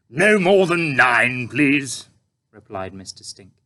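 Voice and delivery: a hungry tramp asking; puzzled tramp. A narrator's reading. Tramp ordering breakfast.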